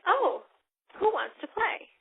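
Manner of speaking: high, sing-song invitation; wrong way. Shown as a demonstration. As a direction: ask it the wrong, overeager way. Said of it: "Don't say that".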